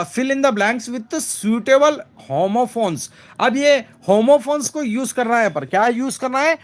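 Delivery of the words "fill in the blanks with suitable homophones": very slow, word-by-word reading of the exercise; slow read-aloud. Shown as a demonstration. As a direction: read the sentence out slowly for the class. Teacher reads exercise instruction.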